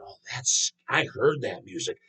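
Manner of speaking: mock a fussy old teacher who fears metal. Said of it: "who I heard say it was, uh, one of the teachers".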